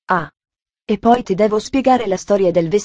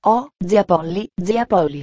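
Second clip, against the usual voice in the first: delighted exclamation; 3 semitones lower than usual. A narrator's reading. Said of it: "esclamò estasiata la ragazzina".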